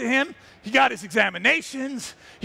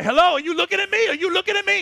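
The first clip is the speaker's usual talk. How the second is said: teasing lioness; 6 semitones higher, faster than usual. Retold or imitated.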